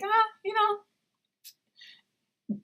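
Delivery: very slow, drawn-out hesitation; awkward, drawn-out stalling; hesitant stall. Retold or imitated. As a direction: stretch the pause while searching for words. Speaker stalls before answering.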